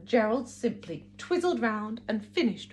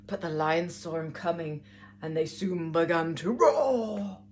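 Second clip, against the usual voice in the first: put-on lively storybook narration for kids; reading to children. A narrator's reading. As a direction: read it like a picture book to little ones. Picture book narration.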